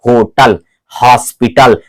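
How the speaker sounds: होटल, हॉस्पिटल with H breathed from the throat; aspirated H. Shown as a demonstration. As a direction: let air start both होटल and हॉस्पिटल. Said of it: "यहां से गले से".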